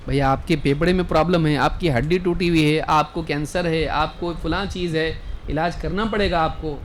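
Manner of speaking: a hint of a doctor listing bad news matter-of-factly; doctor giving diagnosis.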